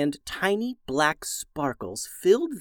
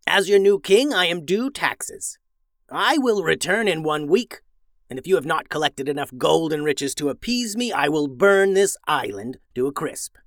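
a villainous wizard's proclamation, raised and slowed; wizard yelling; 2 semitones higher than usual. Acted. Wizard on a dragon declares himself king to the villagers, menacing proclamation. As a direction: announce your rule from dragonback, grandly menacing. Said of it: "began yelling".

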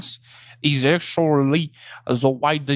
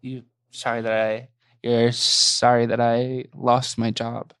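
hurt and deflated; 7 semitones lower than usual. Acted. Taxi driver hurt by remark.

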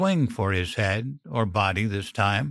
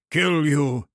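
panting; 5 semitones higher than usual. Acted. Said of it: "he panted".

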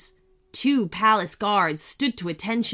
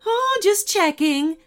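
cyclops; 11 semitones higher, 5 dB louder than usual. Acted. Cyclops voiced in story.

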